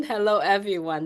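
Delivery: composed, polite hello; restrained, courteous welcome; proper greeting. Shown as a demonstration. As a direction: settle down and greet the group properly. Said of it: "That's more a proper way".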